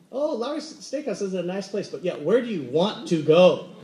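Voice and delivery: polite, noncommittal deflection; courteous sidestep, stressing the question back; overly polite. Acted. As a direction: hand the choice back politely. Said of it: "Have you ever been that polite".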